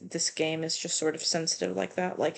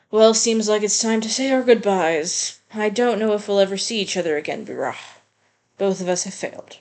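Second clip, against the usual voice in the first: a lightly voiced game character, resigned; 6 dB louder than usual. Lightly voiced character telling Birah goodbye, resigned. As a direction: say goodbye with weary resolve.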